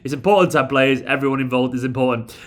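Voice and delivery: a hint of a droning press-conference coach; parody of Pep Guardiola. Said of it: "He sounds like a parody of himself".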